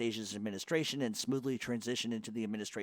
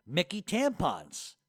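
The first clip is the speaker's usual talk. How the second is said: slow deadpan read; 3 semitones higher, much slower than usual. Shown as a demonstration. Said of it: "You see the direction".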